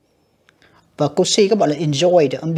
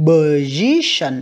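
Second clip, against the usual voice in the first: "Position" slowed, -SI- punched; stress on second syllable; 3 semitones lower, much slower than usual. Shown as a demonstration. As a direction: draw out "Position", hitting the middle syllable. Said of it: "âm hai". (đọc chậm "Position", nhấn âm thứ hai)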